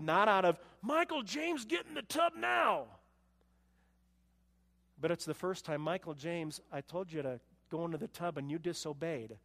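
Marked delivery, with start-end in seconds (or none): 0.8-2.9 high, sharp angry parent voice. Retold or imitated. Parent losing temper at son Michael James, mock angry order. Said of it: "not out of pride". 5.8-9.4 calm correction. Retold or imitated. Calm loving parental correction.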